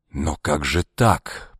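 slow, shaken disbelief; stunned. A narrator's reading. Ivan collapses on a chair, stunned by the news. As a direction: let it sink in, dazed. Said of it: "потрясённо проговорил он".

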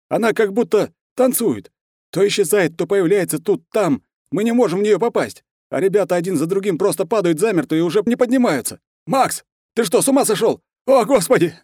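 high, loud, desperate report ending in a cry; panicked soldier witnessing a massacre; terrified soldier. A narrator's reading. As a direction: horror as comrades fall.

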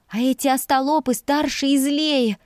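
usual speaking voice

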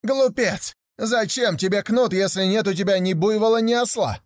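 very high, scornful scolding; sneering aunt scolding him; mocking shout. A narrator's reading. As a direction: jeer at a foolish boy. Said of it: "начала кричать на него".

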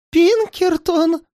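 высоко, медленно, дрожа; в ужасе переспроси имя; дрожащим голосом. A narrator's reading. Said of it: "дрожащим голосом повторил". (испуганно, дрожащим голосом)

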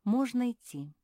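delighted little cheer; happy relief. A narrator's reading. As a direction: announce it gladly. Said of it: "обрадовалась Мафи".

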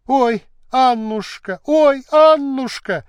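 a maid crying out in alarm for her mistress; voiced alarmed outcry; frightened cry. A narrator's reading. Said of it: "вскрикнула тут Лушка".

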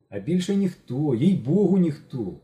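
embarrassed insisting; flustered. A narrator's reading. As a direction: protest a bit too much. Genka blushes, flustered denial.

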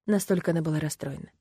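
ordinary delivery, nothing marked

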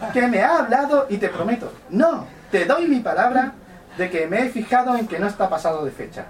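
high falsetto woman, pleading; man doing a woman's voice. Acted. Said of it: "voy a poner voz, mm, de mujer".

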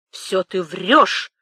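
drawn-out, restrained shout; half-voiced outburst; crying out. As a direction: stretch out the accusation in a mild yell. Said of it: "крикнул Темляков".

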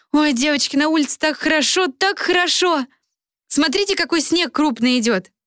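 put-on gushing happy young girl; Helli's voice. A narrator's reading.

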